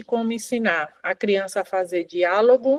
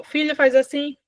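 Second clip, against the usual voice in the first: put-on mother prompting child; 4 semitones higher than usual. Shown as a demonstration. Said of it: "Isso aqui também é uma imitação".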